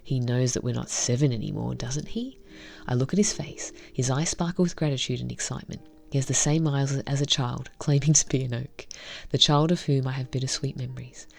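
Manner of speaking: reading a visual novel story aloud, evenly; story narration. Acted. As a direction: narrate the scenes and voice the heroine lightly.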